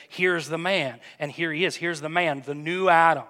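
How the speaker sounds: rising preacher's declaration; preaching. Acted. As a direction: proclaim the new creation. Rises into proclamation.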